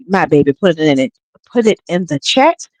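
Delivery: talking through a mouthful of chips; chewing while talking. Real, not acted. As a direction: chew between the words. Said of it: "I'm trying to eat chips and talk".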